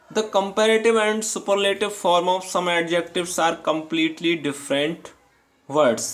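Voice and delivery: reading the rule aloud, word by word; slow, careful dictation pace; slow textbook reading. Acted. Teacher reading the rule to students, slow and deliberate.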